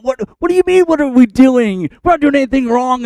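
high, indignant mock protest; hurt feelings. People answering Moses with hurt feelings, high indignant protest. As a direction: act out wounded, defensive pushback. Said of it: "start to get their feelings hurt".

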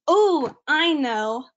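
a mock knowing drawl; odd put-on delivery. Real, not acted. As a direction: stretch it out in a slightly silly voice. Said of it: "I don't know why I said it that way".

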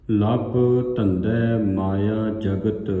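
ਲੱਭ and ਜਗਤ said tight and firm, slowly; said firmly. Shown as a demonstration. Teacher wants ਲੱਭ and ਜਗਤ said firmly by the students. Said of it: "ਕੱਸ ਕੇ ਬੋਲਣਾ ਹੈ".

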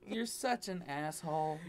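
soft demo. Shown as a demonstration. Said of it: "Just how you say something".

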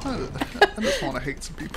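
laughing, high-pitched put-on Hispanic accent. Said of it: "that accent makes me nervous".

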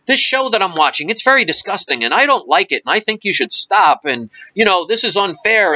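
mildly worked-up mock caller; mock angry complaint. Mocking a viewer calling the cable company, mildly angry complaint. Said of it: "either getting angry".

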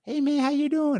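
put-on very high, light boyish voice; lightest voice. Retelling how the tall sixth grader greeted him, in a very high light voice. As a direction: squeak it out like a kid who hasn't hit puberty. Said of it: "like, the lightest voice".

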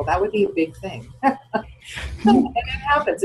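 real laugh breaking in after the words; amused, let a chuckle spill out mid-thought. Real, not acted. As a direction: talk through a real chuckle. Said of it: "I'm laughing because".

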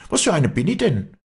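high, loud self-defence; heated, high-pitched protest; indignant shouting. A narrator's reading. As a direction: cry out in hurt indignation. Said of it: "schrie das Mädchen".

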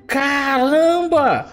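drawn-out high amazed cry; amazed exclamation. Acted. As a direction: stretch it out in awe. Receives surprise gift.

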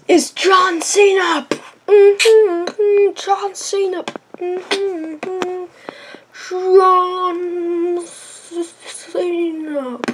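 high, drawn-out announcer. Pretend. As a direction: announce him like a wrestler. Announcer meme.

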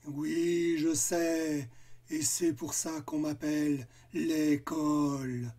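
monster voice. Acted. Monster voice held.

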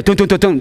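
quick "dun dun" footstep noises; imitated footsteps on stairs. Dad mimics his son coming downstairs at six, imitated footsteps. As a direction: mimic small feet thudding downstairs. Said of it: "you can hear the".

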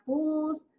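"pus" with a short u and the S kept; "pus", a clipped pues; vowel-reduced pues. Shown as a demonstration. Teacher giving a regional variant, "pus". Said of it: "en otros lugares será pus".

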